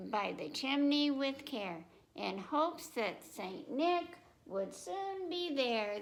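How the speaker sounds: lilting picture-book narration; reading to children. Acted. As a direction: read it like storytime for little ones.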